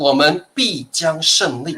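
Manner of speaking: grand, declaiming oratorical delivery. Speaker shows how the phrase sounds when giving a speech, grand speech delivery. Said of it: "你演说的时候".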